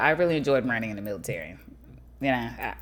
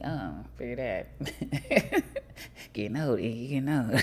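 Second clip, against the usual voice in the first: laughing; 4 dB quieter, slower than usual. Real, not acted. Laughing at own ageing knee.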